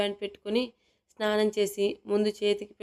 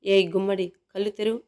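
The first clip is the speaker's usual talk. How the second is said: a louder, sharp "hey, open your eyes"; stern command; 4 dB louder than usual. Acted. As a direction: snap her out of her panic. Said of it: "సీరియస్గా అనగానే".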